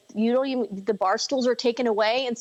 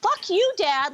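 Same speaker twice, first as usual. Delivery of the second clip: angry retort; 9 semitones higher, slower than usual. Retold or imitated. Retelling a phone call, telling her dad off with mock anger. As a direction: hurl it back at him, mock furious.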